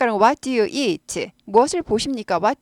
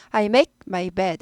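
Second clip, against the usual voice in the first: smooth linked speech; 2 semitones lower, much slower than usual. Shown as a demonstration. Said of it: "make 하지 말고".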